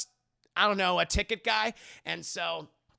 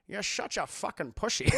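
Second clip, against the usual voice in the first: laughing. Real, not acted. Laughing through the line.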